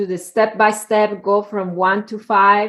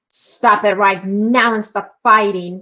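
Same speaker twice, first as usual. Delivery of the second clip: 1 harsh command; 4 dB louder than usual. Retold or imitated. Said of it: "same exact words, but with a different tone".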